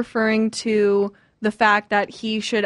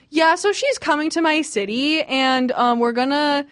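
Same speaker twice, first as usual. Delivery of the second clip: higher, lightly acted eagerness; imitated excitement; 5 semitones higher than usual. Imitating someone announcing her visit, mildly excited. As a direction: act out growing confidence and eagerness. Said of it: "crescendo from beginning to end".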